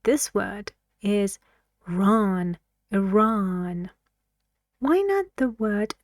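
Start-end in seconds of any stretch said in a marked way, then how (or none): 1.9-3.9 "Ron" alone, then "Iran" stressed on "ran"; teacher showing the stressed end of "Iran"; stress on second syllable. Shown as a demonstration. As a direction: isolate "Ron", then lean on it within "Iran". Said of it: "the stress here in this word is".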